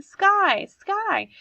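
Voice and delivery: loud, high call to the dog; boy calling his dog away from the road. Acted. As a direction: call your dog back, urgently. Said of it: "I called him".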